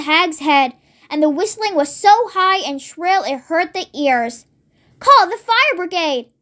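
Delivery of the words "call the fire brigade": urgent cry. Acted. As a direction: sound the alarm. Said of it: "cried Missus Cranky".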